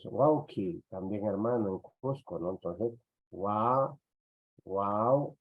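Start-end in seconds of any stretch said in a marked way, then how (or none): 3.3-5.4 "wa" drawn out slowly, pause, then "wau"; teacher sounding out "wa", then "wau"; breaking the diphthong. Shown as a demonstration. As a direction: build "wau" up from a long "wa". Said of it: "entonces rompemos el diptongo".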